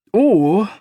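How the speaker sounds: high and loud, cutting in; quick eager interruption. Acted. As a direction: jump in fast to interrupt. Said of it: "I said quickly".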